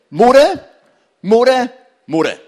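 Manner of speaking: mock grumble, hammed up; grumbling. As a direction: moan the word like a sulking grumbler. Preacher acting out grumbling.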